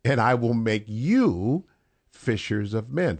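"you" lifted with a rising tune, then a pause; stress on YOU. Shown as a demonstration. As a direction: hold up on "you" before "fishers of men.". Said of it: "the intonation on certain aspects".

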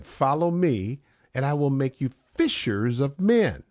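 "men." landed with a firm fall; stress on MEN. Shown as a demonstration. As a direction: weigh down the final "men.". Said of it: "the intonation on certain aspects".

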